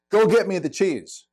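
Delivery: a brusque demand for the cheese; blunt demand. Shown as a demonstration. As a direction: bark it like a command. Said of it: "thirty-eight percent of communication is tone".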